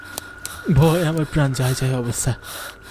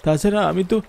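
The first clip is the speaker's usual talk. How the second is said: higher, earnest begging; desperate pleading; 5 semitones higher than usual. Acted. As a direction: plead with the ghost for mercy. Narrator begs the ghost.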